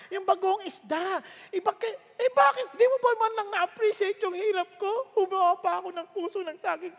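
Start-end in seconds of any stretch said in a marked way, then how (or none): 1.5-7.0 higher, rising indignant protest; hurt wife. Retold or imitated. Wife to husband defending her cooking, hurt protest. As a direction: plead to be appreciated.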